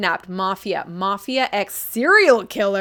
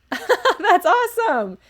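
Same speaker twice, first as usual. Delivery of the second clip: laughing delight; 10 semitones higher, 4 dB louder, slower than usual. Real, not acted. Friend recommended the author.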